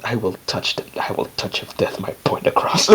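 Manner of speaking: low, soft grumbled mutter; muttering under breath. Acted. Dwarf grumbles after a heart to heart, muttering under breath. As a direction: drop it down almost to nothing. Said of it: "he just mutters under his breath".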